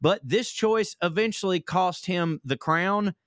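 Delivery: steady promotional narration; podcast ad read. Acted. Co-host selling a royal history podcast to listeners, ad read. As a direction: tell the royal tale, then pitch the show.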